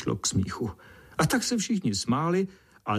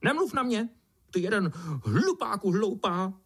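very high, shrill angry beetle; high angry beetle shouting; 8 semitones higher than usual. A narrator's reading. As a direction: shut him up furiously. Beetle yells at ant.

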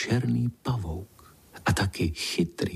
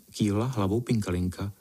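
ordinary delivery, nothing marked

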